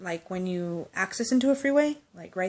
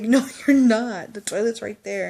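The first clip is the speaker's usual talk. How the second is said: laughing, slowed disbelief; laughing correction; 3 semitones higher, 7 dB louder than usual. Retold or imitated. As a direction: correct her through laughter. Friend thinks tub is toilet.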